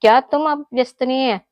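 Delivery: mock the friend who said he was busy. Shown as a demonstration. Friend teasingly asks if he is busy, mocking. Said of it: "കളിയാക്കി കൊണ്ട് ചോദിക്കുക".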